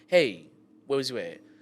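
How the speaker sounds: acted, real stern, firm, no-nonsense tone. Retelling own questions to a late partner, imitating own stern talk. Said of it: "but I talk real stern".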